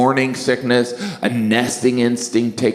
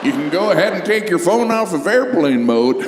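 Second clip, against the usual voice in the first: pilot on intercom. Retold or imitated. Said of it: "Maybe the pilot came over the intercom".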